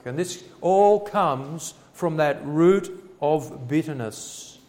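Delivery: normal talking voice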